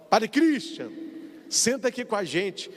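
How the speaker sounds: friendly invitation. Retold or imitated. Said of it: "e fala assim que, ó".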